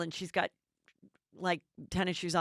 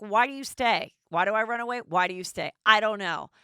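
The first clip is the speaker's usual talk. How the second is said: frustrated; 3 semitones higher, 5 dB louder than usual. Retold or imitated. Victoria's frustrated reply.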